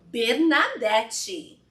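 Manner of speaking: "Bernadette" drawn out very slowly, every syllable full and loud; full name said proudly. Shown as a demonstration. Teaching the audience to say their full name, slow and weighty. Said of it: "Eu não falo assim, eu nem falo assim".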